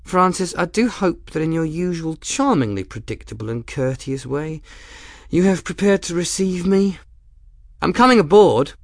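high, playful mock-courtly voice; amused woman captain. A narrator's reading. Woman captain announcing herself to Grim, high and playful. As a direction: tease him with exaggerated politeness. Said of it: "The woman laughed".

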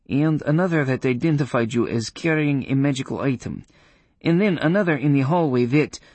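a hint of the proud witch.

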